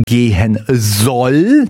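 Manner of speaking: soll stretched out with a rising pitch; stress on soll. Real, not acted. Radio host hints at doubt about the drug claim, heavy stress on soll. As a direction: lean hard on soll, drawn out and lifted at the end. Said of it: "Die Betonung liegt auf soll".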